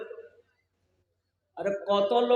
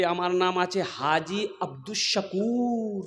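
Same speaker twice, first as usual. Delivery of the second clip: lightly acted, lower self-important name announcement; haji introducing himself; 3 semitones lower, 6 dB quieter than usual. Haji tells his name to a worshipper, lightly acted. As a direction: draw out the name at the end. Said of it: "तो ये हाजी साहब बोले".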